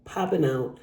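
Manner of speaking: halting, stumbling over words; stuttering. Real, not acted. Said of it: "And I'm stuttering".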